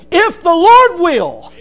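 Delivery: drawn out and loud; slow emphatic scripture. Acted. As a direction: weigh every word of the verse. Preacher reads scripture emphatically.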